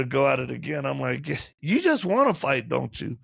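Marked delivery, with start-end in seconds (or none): 1.6-3.2 teasing question. Retold or imitated. Teasing wife wanting fight.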